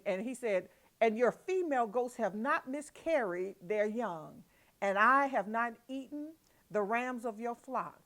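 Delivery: indignant Jacob. Acted. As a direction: plead your innocence, voice rising.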